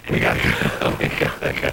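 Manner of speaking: laughing. Real, not acted. Laughs on both lines.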